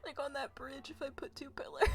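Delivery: breathy whisper shaking with laughter; whispered giggle. Real, not acted.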